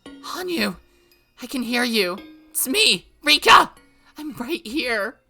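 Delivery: loud, high, straining to be heard; urgent calling. Acted. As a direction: shout through the crystal to reach her. Calling to voice in crystal.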